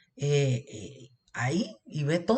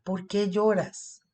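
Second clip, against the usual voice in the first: angels gently asking Mary; gentle tender question; slower than usual. Acted. Esta frase tan linda.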